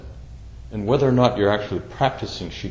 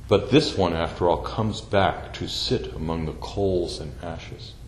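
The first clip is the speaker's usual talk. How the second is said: poem reading. Shown as a demonstration. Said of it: "I'm gonna read you this fifth rank".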